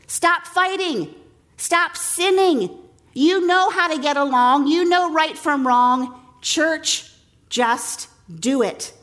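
firm, slow scolding; scolding parent. Retold or imitated. Paul's scolding voiced.

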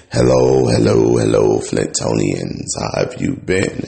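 crunchy, bitcrushed audio. Real, not acted. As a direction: voice crackling through crunchy distortion. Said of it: "I sound a little crunchy".

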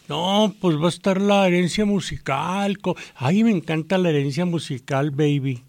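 slow cool street drawl. Retold or imitated. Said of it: "una frase que usan mucho ahora los chavos".

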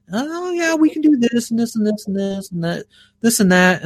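eager imitation, starting high and settling; mock an overeager salesperson listing perks; sales caller. Caller reeling off extras to the customer, mock eager sales voice. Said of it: "they're like".

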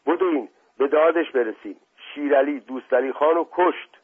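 panicked, breathless. Acted. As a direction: raise the alarm in a rush of short phrases. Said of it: "با رنگ و روی پریده نفس زنان گفت".

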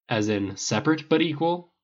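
pointed rhetorical question, rising. Acted. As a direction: ask it with a sharp edge. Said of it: "Tony asked pointedly".

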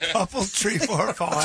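echoing an Irish trainer; mock Irish accent. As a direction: mimic the count with an Irish accent. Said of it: "five is Irish couple".

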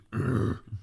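short throaty grunt. A narrator's reading. Clive reacting to the unmasked squire, short grunt. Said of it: "Clive grunted".

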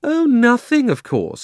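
high, loud mock innocence; heavily sarcastic retort. A narrator's reading. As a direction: pour on the sarcasm, pitched right up. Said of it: "said Polly sarcastically".

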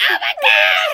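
very loud, high fangirl scream; retold scream. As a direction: belt it out as a screaming fan. Retold fangirl reaction to applause.

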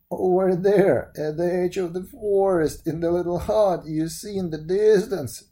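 lightly voiced old woman giving directions. Old woman answers the prince.

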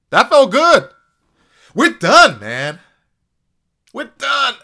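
loud, high relieved whoop; excited outburst. Real, not acted. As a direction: shout it out, relieved. Relieved shout at end.

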